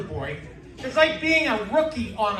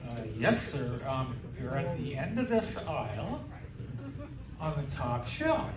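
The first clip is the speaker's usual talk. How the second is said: much softer and lower, sheepish; embarrassed mumble; 9 semitones lower, 10 dB quieter than usual. Retold or imitated. Teen clerk answering a man about pads, sheepish and soft.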